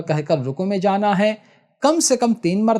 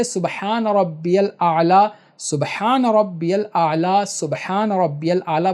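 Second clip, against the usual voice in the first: slow tasbih; slower than usual. Shown as a demonstration. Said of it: "تین مرتبہ تسبیح پڑھیے".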